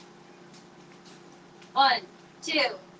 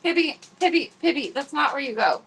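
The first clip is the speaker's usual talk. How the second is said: calling the cat; 5 semitones higher than usual. Real, not acted.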